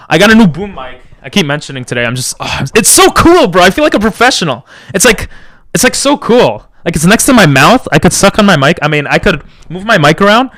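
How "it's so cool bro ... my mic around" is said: much higher, gushing excitement; gushing over his new mic, very high; excited high voice. Real, not acted. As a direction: squeal about the new mic. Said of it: "I don't know why I'm talking like this today".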